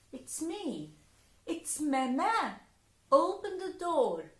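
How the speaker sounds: Mama's voice. Acted. Mama voiced at door.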